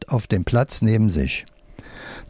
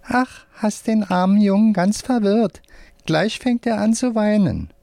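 high, squeaky little voice; squeaky puppet voice; 11 semitones higher than usual. A narrator's reading. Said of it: "piepsiger Stimme".

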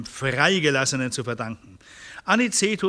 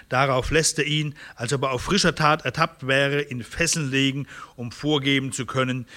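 measured, fluent reading of history; deliberate historical narrator; story narration. A narrator's reading. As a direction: read out a dramatic chronicle with clear phrasing. Reads a historical narrative aloud.

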